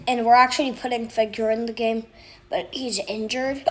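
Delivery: talking with hiccups; speaking through hiccups. Real, not acted. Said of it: "Sorry, I have the hiccups".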